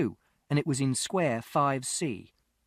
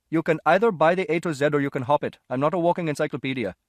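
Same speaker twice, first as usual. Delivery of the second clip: louder, brusque London shop voice; irritated shopkeeper; 5 dB louder, faster than usual. A narrator's reading. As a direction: shoo the boy off, fed up.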